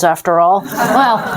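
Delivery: ordinary delivery, nothing marked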